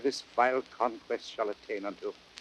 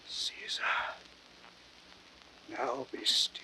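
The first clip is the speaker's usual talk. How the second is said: fading, breathless whisper; dying whisper; 3 semitones higher, 9 dB quieter than usual. Acted. Brutus breathing his last words to Caesar's ghost in a whisper. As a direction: let the last words die away.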